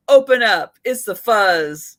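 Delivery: loud cop at the door; tough cop line. Retold or imitated. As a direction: bark it like a TV detective. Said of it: "Nobody talks like that".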